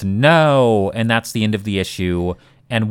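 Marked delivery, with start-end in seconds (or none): 0.0-0.9 mild mock scream, a bit higher and louder; retold scream. Recapping the cliffhanger where he screams, mock scream. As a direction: cry out a half-hearted, retold "No". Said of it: "and he screams".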